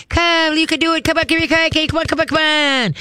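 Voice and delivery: high, bright coaxing call to a dog; excited dog call. Shown as a demonstration. Trainer calling a dog on a long line, high excited coaxing. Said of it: "draw the dog to you".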